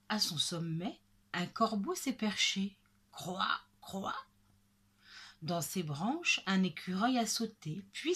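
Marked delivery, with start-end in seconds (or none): 3.1-4.2 short imitation crow caws. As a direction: caw twice like a crow. Narrator imitates perched crow. (croassement de corbeau imité)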